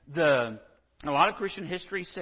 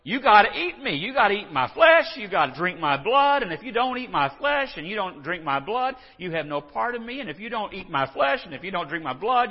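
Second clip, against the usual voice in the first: loud, high, insistent Jesus voice; hammed-up insistent Jesus, much louder; mock Jesus; 7 semitones higher, 9 dB louder than usual. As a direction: hammer it home like a street preacher. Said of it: "Jesus is sitting there going".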